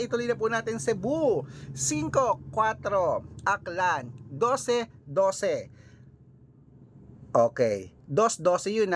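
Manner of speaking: slow, deliberate read of each number, place names quick; announcing lucky numbers. Acted. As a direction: read the numbers out like a lottery draw. Reads out lucky numbers per place.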